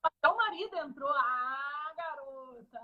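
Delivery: choppy, dropping out audio; connection breaking up. Real, not acted. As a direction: voice cutting in and out. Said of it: "Ai, agora tá travando". (áudio travando e cortando)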